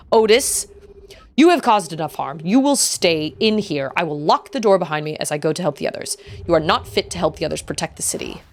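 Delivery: confine the student with grave authority; stern owl elder. Acted. Elder orders Otis to stay locked in, stern.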